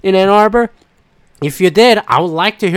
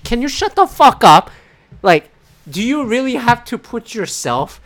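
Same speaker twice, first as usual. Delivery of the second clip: mock angry snap; 6 semitones higher than usual. Retold snapping at a commentator.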